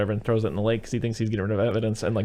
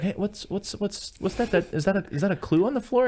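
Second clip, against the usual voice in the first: mock innocent; 9 semitones higher than usual. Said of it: "He's like".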